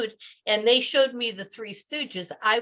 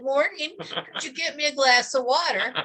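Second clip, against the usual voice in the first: put-on British accent; 3 semitones higher than usual. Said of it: "with this British accent".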